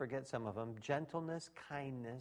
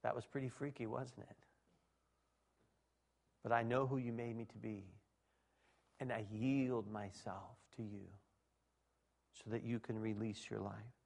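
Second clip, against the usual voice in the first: humble prayer; 3 semitones lower, 4 dB quieter than usual. Pretend. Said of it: "You say".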